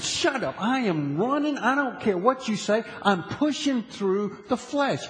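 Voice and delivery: answering his lazy body, firmly; determined retort. Retold or imitated. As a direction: overrule the body, resolute. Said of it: "I said".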